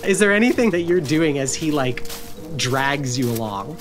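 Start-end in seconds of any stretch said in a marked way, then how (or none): none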